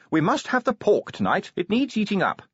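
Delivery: Sybil announcing. A narrator's reading. Sybil quoted at lunch.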